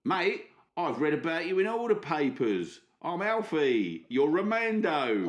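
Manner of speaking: cheeky put-on British accent; Alfie, British accent. Alfie greets Romando, put-on British accent. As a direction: play a matey Brit, drawing out names. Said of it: "put me British accent on".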